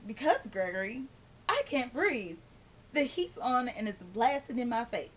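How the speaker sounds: dry, sarcastic explanation at normal volume; politely biting, holding back the curse. Retold or imitated. Answering her friend's nosy question with mild, dry sarcasm. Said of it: "I said sarcastically".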